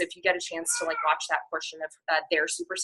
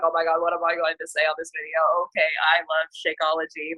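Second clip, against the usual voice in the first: lightly robotic monotone self-mockery; Beachbody robot; faster than usual. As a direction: imitate a scripted coach, a hint of robot. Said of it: "sound like a Beachbody robot".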